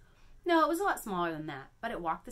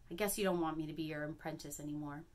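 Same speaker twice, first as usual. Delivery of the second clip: sullen; 2 semitones lower, 4 dB quieter than usual. Acted. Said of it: "I say sullenly".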